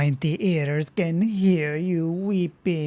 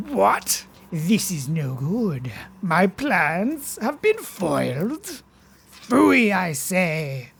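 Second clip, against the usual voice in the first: foiled villain; 5 semitones higher than usual. Acted.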